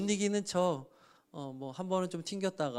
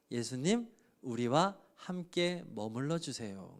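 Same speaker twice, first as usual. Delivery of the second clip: soft slow plea; 4 semitones lower, 5 dB quieter, slower than usual. Retold or imitated. Samaritans pleading with Jesus.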